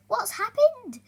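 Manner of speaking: high sleepy voice; yawning. Acted. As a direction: ask it mid-yawn. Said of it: "yawned Dormouse".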